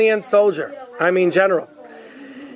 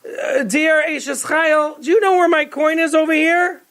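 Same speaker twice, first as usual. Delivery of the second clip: calling out; 6 semitones higher than usual. Acted. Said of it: "He called his wife".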